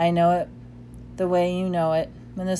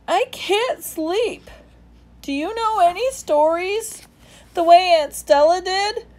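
little elephant; 12 semitones higher, 5 dB louder than usual. A narrator's reading. Ruby asking Ivan for a story, high child voice.

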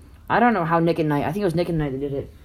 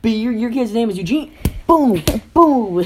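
mock comeback; 7 semitones higher, 5 dB louder, slower than usual. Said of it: "He'd be like".

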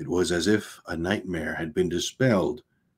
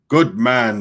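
cheering; 4 semitones higher, 7 dB louder than usual. A narrator's reading. Crewmen cheer him.

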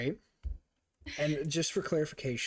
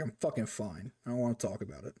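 mock sullen denial; pouty; 2 semitones lower, 3 dB quieter, faster than usual. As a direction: shut the question down with a pout. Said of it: "I go to class all pouty".

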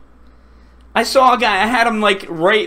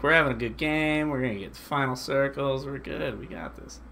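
mock confidence; 8 semitones lower, 12 dB quieter than usual. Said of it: "I'm like".

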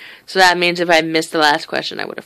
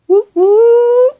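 high, loud whoop; excited cheer; 10 dB louder than usual. Real, not acted. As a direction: cheer like you just passed. Cheering over new license.

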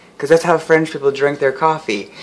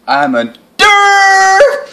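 goofy blurt; 8 dB louder, much slower than usual. Pretend. Botched mock show intro.

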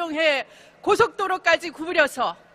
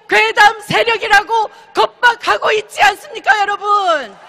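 roaring rallying speech; 2 semitones higher, 3 dB louder than usual. Real, not acted.

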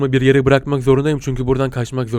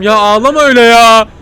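pitying; 9 semitones higher, 8 dB louder than usual. Real, not acted. Pitying the crying creature.

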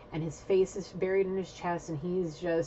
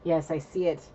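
whispered awe; 2 semitones lower than usual. Retold or imitated. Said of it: "He's like".

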